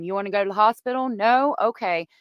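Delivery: lightly imitated taunt, quick question with a lifted "No?"; mock taunting. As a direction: toss out a mock offer, needling a little. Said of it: "taunting him".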